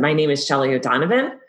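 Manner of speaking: upward rising lilt at end of the surname. Showing question inflection when saying your name, question rise at end on O'Donovan. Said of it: "question inflection. So it's kind of going up at the end".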